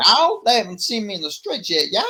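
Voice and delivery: high, loud redneck attempt; hammed-up redneck twang, starting very high; redneck accent. Shown as a demonstration. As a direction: try a redneck accent that lands near Theo Von. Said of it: "I can try my redneck".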